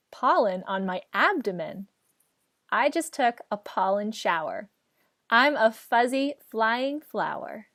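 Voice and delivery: put-on sing-song children's rhyme; poem recitation. Shown as a demonstration. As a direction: read the rhyme with a bouncy lilt. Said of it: "share a poem with you".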